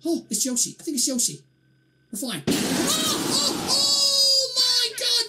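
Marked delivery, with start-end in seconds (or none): 2.5-5.3 slow, drawn-out scared yell; frightened cry. Real, not acted. Gamer jolted by monster, frightened yell.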